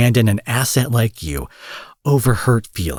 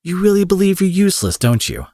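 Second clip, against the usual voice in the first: incredulous; 9 semitones higher than usual. Acted. Villain realizes hero's despair.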